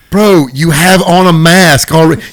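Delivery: mock exasperated bandmate. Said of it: "be like".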